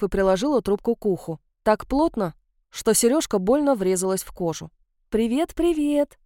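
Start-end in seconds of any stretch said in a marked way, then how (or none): 5.1-6.2 slow, sweetly chirped greeting; affectionate chirp. Acted. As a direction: lightly chirp it like a fond mother. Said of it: "ласково прощебетала мама".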